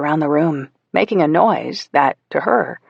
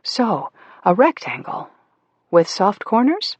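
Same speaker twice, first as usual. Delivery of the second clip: mother's voice; 6 semitones higher than usual. Acted. Mother questions child while sewing.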